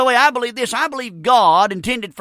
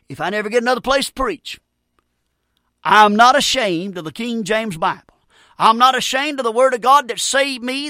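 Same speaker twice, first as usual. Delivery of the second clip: loud, rising fervent declaration; impassioned preaching; 3 dB louder than usual. Real, not acted. Preacher declaring faith in the Bible to listeners, impassioned. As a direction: preach it with full conviction, hitting the key words hard.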